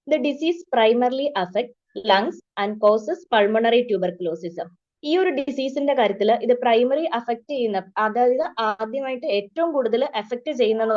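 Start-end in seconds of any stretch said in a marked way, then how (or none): 0.1-4.5 very slow, word-by-word dictation of a definition. Shown as a demonstration. Teacher dictating a definition to nursing students, slow and even. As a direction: read it out slowly so students can write. Reads textbook definition for notes.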